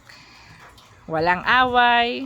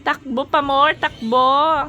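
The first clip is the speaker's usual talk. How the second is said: cheering; 5 semitones higher, 4 dB louder than usual. Real, not acted. Cheering on friend running.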